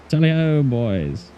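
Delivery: mock rally cry.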